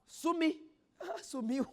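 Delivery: laughing through the words; laughing line about the wife vanishing. Real, not acted. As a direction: chuckle out the words.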